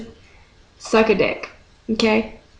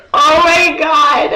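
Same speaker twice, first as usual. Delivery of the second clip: high, loud, drawn-out mock squeal; swooning fan outburst; 6 semitones higher, 5 dB louder, much slower than usual. Fan reliving a crush on a movie star, hammed-up squeal. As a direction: stretch it out in over-the-top fangirl ecstasy.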